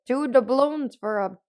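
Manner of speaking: playful character voice, breaking into a laugh; Kristoff voice. Acted. Ice seller calling out his price, in a lightly put-on voice. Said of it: "that was my Kristoff voice".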